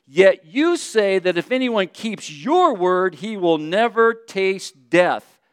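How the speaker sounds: mildly indignant, slow accusation; upset. Acted. Crowd challenges Jesus on death, mildly upset. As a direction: throw it back at him, slowly, a touch upset. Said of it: "They were upset at this point".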